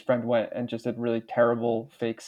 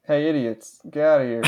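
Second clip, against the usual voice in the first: bar owner voice; 2 semitones higher, 4 dB louder than usual. Acted. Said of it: "the guy owning the bar when they come in".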